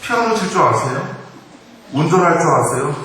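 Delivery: high-pitched, assertive comeback in mock challenge; defiant daughter-in-law. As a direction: fire off each question like a challenge, pitched high. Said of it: "시어머니에게 당당하게 말합니다". (당당하게 따져 묻는 며느리 흉내)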